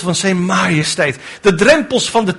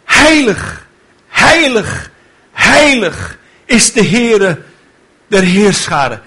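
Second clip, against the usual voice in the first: calling out; 2 semitones higher, slower than usual. Retold or imitated. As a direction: call it out across the temple. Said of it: "die riepen elkaar toe".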